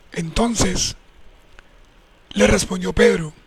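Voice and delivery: measured Bible reading with weighty pauses; solemn storytelling from the pulpit; scripture reading. A narrator's reading. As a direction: read scripture deliberately, phrase by phrase. Reads Bible passage aloud.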